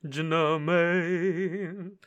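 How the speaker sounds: slow, drawn-out line testing the room echo. Shown as a demonstration. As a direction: draw it out to hear the room ring. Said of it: "I'll keep doing that 'cause ... the reverb".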